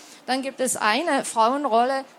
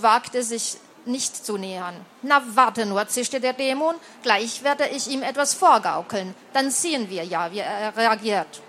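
ruhige Erzählstimme beim Vorlesen; Geschichte vorlesen. A narrator's reading. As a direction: trag es wie eine alte Legende vor. Liest weiter aus Roman vor. (vorlesende Erzählerin)

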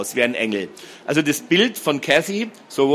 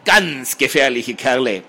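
fibbing; 3 dB louder, slower than usual. A narrator's reading. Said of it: "flunkerte Marco".

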